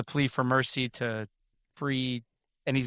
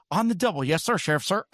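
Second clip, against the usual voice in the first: lightly voiced eager underling, starting high; Trigger; 3 semitones higher, faster than usual. Henchman answering the Sheriff, mock eager obedience. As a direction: imitate a deputy jumping to an order. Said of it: "He's like".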